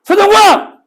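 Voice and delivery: calling his own full name into a dark alley. Shown as a demonstration. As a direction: shout the full name into the empty street. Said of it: "크게 불러야 돼".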